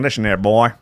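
put-on a stray, mild Texan accent. Host starting a talent pitch to Jimmy, slipping into Texan. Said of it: "that's a Texan accent".

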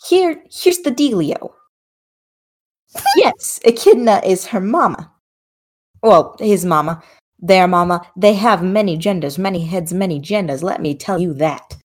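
chatty sassy older woman, lightly voiced; sassy grandma goddess. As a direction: gossip like a doting grandma. Plays god character.

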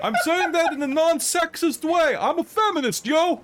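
high, loud bro voice, laughing; a loud fan defending himself; bro heckler voice. Acted. GM holds heckler voice.

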